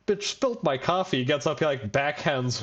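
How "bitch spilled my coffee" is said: mock angry man. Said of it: "and he's like".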